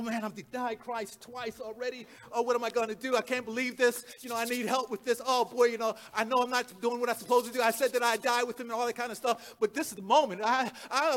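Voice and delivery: hurried, rambling inner monologue; mildly acted worry, tumbling along; fretful thinking aloud. Peter walking around after denying Christ, fretting to himself. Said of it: "he's walking around thinking".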